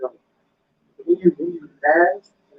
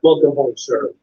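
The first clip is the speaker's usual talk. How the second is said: mock warm welcome; 7 semitones lower, slower than usual. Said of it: "They welcome you back".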